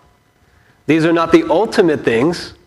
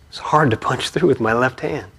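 a mild hint of tearful, softer; crying boy; 4 dB quieter than usual. Boy tells sensei why he failed, mildly tearful and softer. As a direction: let a little tearfulness in. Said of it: "as he starts crying".

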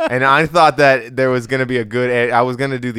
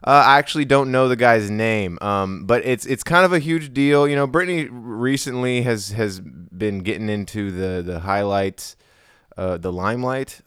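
entertainment news host; 3 semitones lower than usual. Acted. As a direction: present it like celebrity news. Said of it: "I wanna sound like a E Tonight guy".

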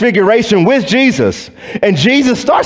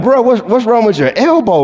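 tactless blurt; 5 semitones higher than usual. Retold or imitated. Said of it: "I'm like".

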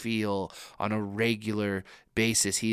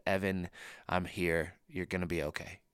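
dad's calm reassurance; 3 semitones lower, 5 dB quieter than usual. Retold or imitated. Pastor voices his dad calming him after surgery, soft and gentle. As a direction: soothe a scared child, softly. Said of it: "and he said".

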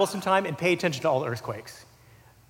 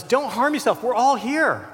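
retold yell; 5 semitones higher than usual. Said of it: "He yells out in the darkness".

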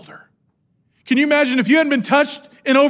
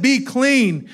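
said with energy; 2 semitones higher than usual. Acted. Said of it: "he said it, it with energy".

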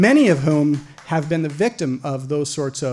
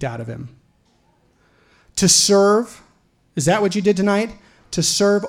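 imagined righteous speech. Pretend. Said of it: "Okay, I didn't say that".

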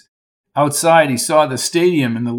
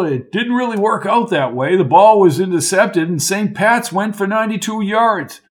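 lightly voiced old Lark, high and jolly; a hint of a jovial old-timer calling him old boy; hearty old college man; 4 semitones higher, 4 dB louder than usual. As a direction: play the chummy old coach, a touch higher. Lark's character voice.

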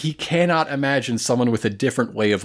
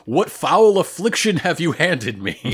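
mock-dramatic cry, pitch raised; retold shout; 5 semitones higher than usual. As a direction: imitate an indignant villain crying out. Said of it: "And so he shouts".

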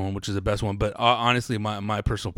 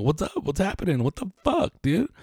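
mock frantic; 10 semitones higher than usual. Quoting his email in a voice.

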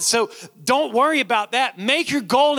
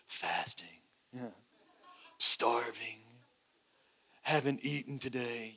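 mock weak faster; 9 semitones lower, 11 dB quieter than usual. Mocking a showy faster.

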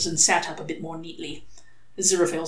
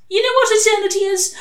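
more insistent; 9 dB louder than usual. Acted. Crowley repeats it higher.

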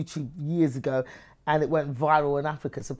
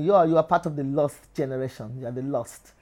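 Nigerian man. Retold or imitated. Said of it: "one guy called me".

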